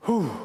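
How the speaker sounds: short voiced sigh of dismay; exasperated whew. Real, not acted. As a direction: let out a short whew of disbelief. Preacher reacting to what he read.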